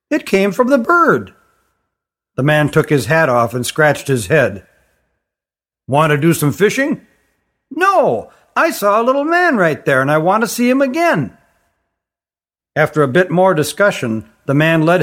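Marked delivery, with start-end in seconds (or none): 0.1-11.3 put-on a child refusing to let it go; insistent little girl.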